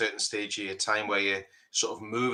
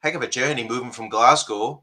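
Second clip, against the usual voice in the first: Geordie accent; 5 dB louder than usual. Real, not acted. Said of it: "I'm saying that with a Geordie accent".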